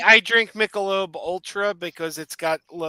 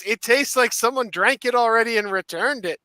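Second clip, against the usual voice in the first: hint of a Scottish accent, pitched up; 4 semitones higher, 4 dB louder than usual. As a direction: retell the friend's punchline in a mild Scottish accent. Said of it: "but in his Scottish accent".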